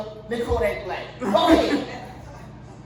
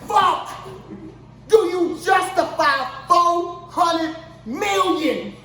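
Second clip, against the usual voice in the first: incredulous; 4 semitones higher, slower than usual. Real, not acted. Slow incredulous rant.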